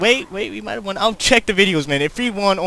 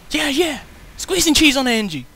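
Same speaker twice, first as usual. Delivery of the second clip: gleeful; 5 semitones higher, 5 dB louder than usual. Real, not acted. Celebrating a play.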